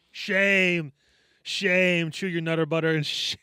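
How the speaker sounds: Shame, Shame, scolding a naughty friend; mock shaming. Mock shaming cohost for chewing.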